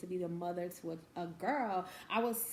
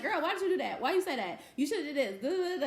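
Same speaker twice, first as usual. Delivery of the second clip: imitating daughter; 8 semitones higher, 5 dB louder, faster than usual. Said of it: "And she'd be like".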